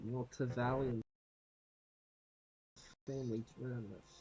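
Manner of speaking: muttering under the breath. In character, saying it so Valaris can't hear: muttering under breath. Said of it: "say under my breath so Valaris can't hear".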